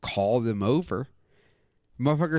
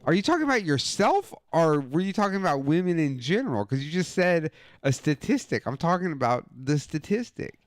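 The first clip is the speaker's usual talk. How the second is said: incredulous; 5 semitones higher than usual. Retold or imitated. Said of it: "And I was like".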